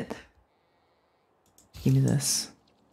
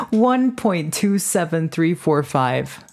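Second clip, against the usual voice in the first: slow exaggerated count; 2 semitones higher, slower than usual. Shown as a demonstration. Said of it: "Read it in one point two".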